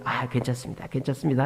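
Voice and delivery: quietly forgiving; mild reassurance. Retold or imitated. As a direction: let a mistake pass, voice kept down. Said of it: "실수해도 그냥".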